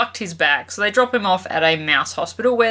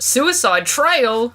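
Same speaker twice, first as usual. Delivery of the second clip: nervous gulp; 5 semitones higher, much slower than usual. Acted. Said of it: "Bernard gulped".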